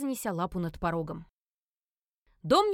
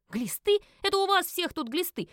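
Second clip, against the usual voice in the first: louder, higher offended yell; indignant outburst; 10 semitones higher, 5 dB louder than usual. A narrator's reading. Offended witch yelling at the family, indignant. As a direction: hurl the insult back.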